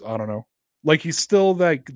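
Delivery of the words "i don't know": Belichick mumble. Retold or imitated. Belichick's curt reply.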